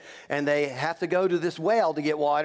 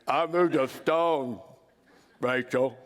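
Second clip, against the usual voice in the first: slow, lightly voiced boast; a hint of a showing-off suitor; proud Jacob; 3 semitones lower, slower than usual. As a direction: drag it out like a proud strongman. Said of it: "he walks over ... he pulls off the stone".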